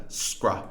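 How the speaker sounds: "scra" cut off after the opening consonants; the start of script alone, "scra"; isolated initial cluster. Shown as a demonstration. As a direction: sound out just s-k-r in "scra". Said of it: "missing the initial consonant cluster".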